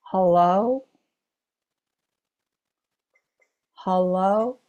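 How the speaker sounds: calling out. Retold or imitated. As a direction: call out hello into the empty hall. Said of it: "and she's calling out".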